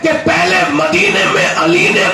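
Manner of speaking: slow, shouted sermon climax over music; preacher building to the crowd's cheer; full-force preaching. Acted.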